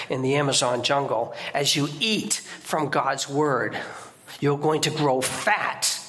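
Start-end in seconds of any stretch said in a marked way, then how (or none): 1.5-6.0 slow preacher's line, leaning on eat; slow, weighty proclamation. Shown as a demonstration. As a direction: draw out "As you eat from God's word" slowly, stressing eat. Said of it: "I used to say this to the Indians".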